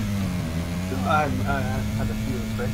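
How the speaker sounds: tipsy, words slurring. Real, not acted. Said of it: "I can hear the slurs".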